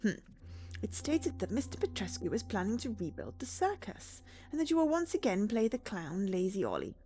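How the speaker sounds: reading game dialogue in voices; character voices. Acted. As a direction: voice the doctor and the clown.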